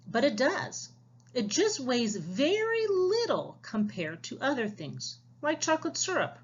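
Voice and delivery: lively storybook read-aloud for the class; reading to children. Acted. Teacher reading a storybook aloud to her class. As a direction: read it like a picture book to young listeners.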